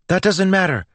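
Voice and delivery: high, loud cut-in; quick interruption. A narrator's reading. Melody cuts Joel off mid-word, quick and high. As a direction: jump in sharply over the other speaker. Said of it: "Melody said quickly".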